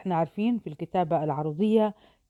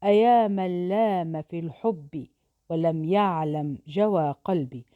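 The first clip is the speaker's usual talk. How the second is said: poem recital. Shown as a demonstration. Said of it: "نأتي الآن إلى بيت الشعر هذا".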